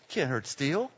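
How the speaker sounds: low, quiet tough-guy line; underplay it as a movie tough guy; Clint Eastwood. Acted. Preacher imagining himself as God being beaten, low Eastwood impression. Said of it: "be like Clint Eastwood".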